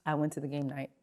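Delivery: quiet repeat. Real, not acted. Repeating to the audience, quietly resigned. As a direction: mutter it again, resigned.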